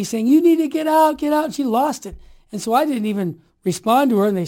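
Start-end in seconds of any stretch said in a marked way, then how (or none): 0.3-1.4 retold yelling. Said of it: "starts screaming at me".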